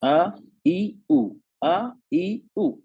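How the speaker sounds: अ, ई, उ sung out as separate open vowels; easy open vowels. Shown as a demonstration. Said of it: "आराम से आवाज निकल रही". (अ, ई, उ आराम से, खुली आवाज में)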